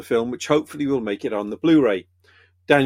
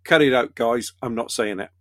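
put-on punchline in a Welsh accent; 3 semitones lower than usual. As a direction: turn down the joke with a Welsh accent. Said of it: "I'll do it in a Welsh accent".

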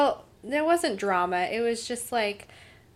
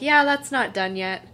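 imitating Dean; 3 semitones higher, 7 dB louder than usual. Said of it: "Dean was like".

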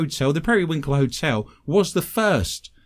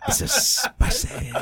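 laughing; 11 semitones higher, slower than usual. Real, not acted. Laughing through the story.

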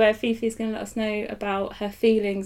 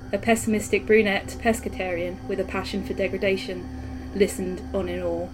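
flat, even true crime narration; deadpan documentary narrator voice; monotone true crime narrator. Acted. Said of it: "monotone intro".

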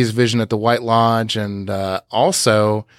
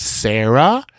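imitated shaken question. Host imitating Carrie's reaction to her mother's name, mildly shaken. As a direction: echo her startled question, voice lifting. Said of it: "the way that she says".

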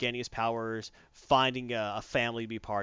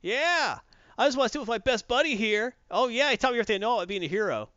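loud, much higher showy hero entrance; cocky superhero; 10 semitones higher, 4 dB louder than usual. Retold or imitated. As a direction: burst in like a grinning show-off superhero. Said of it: "Billy walks in as Shazam".

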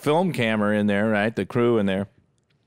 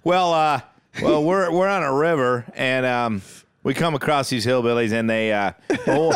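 awkward confession; 3 semitones higher than usual. Retold or imitated. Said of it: "Ned Beatty's gotta go".

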